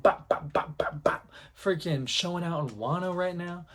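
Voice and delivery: rapid popped "bop" gunshot noises; imitated gunshots. Fan miming a dual-wielder firing, imitated gunshots. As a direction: pop out mouth-made pistol shots.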